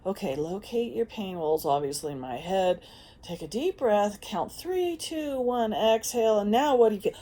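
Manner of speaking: lightly voiced guided breathing instructions; mock meditation guide. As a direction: parody a calm self-help coach. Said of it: "done the".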